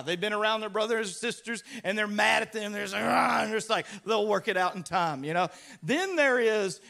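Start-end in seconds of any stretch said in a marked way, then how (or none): 2.9-3.4 short mock wail of a cross toddler; imitated frustration cry. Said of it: "the frustration cry".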